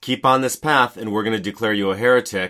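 ordinary talk, nothing marked

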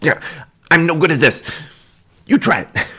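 high, fast, bickering kobold voice. A kobold bickers with another kobold at a tower door: bickering kobold voice. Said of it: "The other two are very clearly kobolds, / little humanoid, like halfling sized creature just bickering and pointing at a door at the base of the tower. Kind of peek and you're staring at them and watc".

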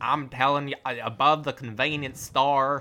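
put-on agitated, insistent, worked-up American accent, slow. Retelling a movie character's line, in a put-on worked-up American accent. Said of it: "he's so worked up".

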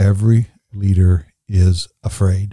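very slow, deliberate, every word drawn out. Speaking to listeners about leaders, very slow. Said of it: "I want to say this really slow".

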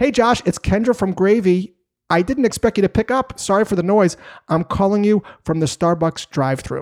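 put-on cheery, high, upbeat, friendly voice. Quoting a caller from Gravy opening a phone call: imitating Kendra, upbeat and friendly. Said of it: "in a very upbeat and friendly tone".

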